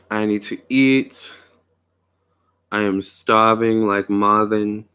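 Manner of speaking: a light, slow put-on New York accent. Telling her live chat she's starving, light New York accent. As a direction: drawl it out in a hint of New York. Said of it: "in my New York voice, my New York accent".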